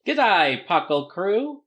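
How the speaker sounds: put-on a brief Australian-accented greeting; light, short-lived Aussie accent; attempted Australian accent. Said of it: "that is the end of my Australian accent".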